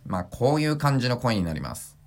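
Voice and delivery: chest resonance dropped, sound sitting in the nose; nasal habitual voice. Shown as a demonstration. Voice trainer showing his old nasal speaking voice. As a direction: let the voice ring in the nose instead of the chest. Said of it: "胸を鳴らすのをやめて、普段の声を出すと".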